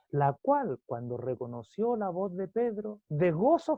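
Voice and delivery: deliberate, projected pulpit reading; scripture reading. Acted. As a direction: read the verse to a congregation, lifting each phrase. Reads scripture aloud to congregation.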